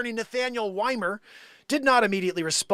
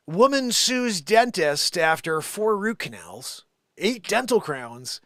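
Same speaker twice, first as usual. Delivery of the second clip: news read; 4 dB louder, slower than usual. Shown as a demonstration. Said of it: "I'll read it teleprompter style".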